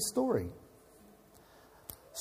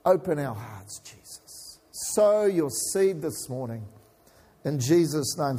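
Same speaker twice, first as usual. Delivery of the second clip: opening prayer. Acted.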